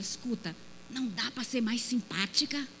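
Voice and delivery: low, soft private reproach; a hushed complaint after church; husband's quiet scolding. Retold or imitated. Husband scolding shy wife privately, low soft voice. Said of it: "ele fala".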